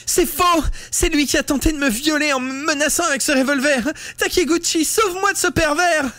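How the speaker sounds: very high, shrieking fake terror; girl faking terror to win over a classmate; frightened cry. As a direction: shriek the accusation like a terrified victim. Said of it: "Mitsuko poussa un cri effarouché".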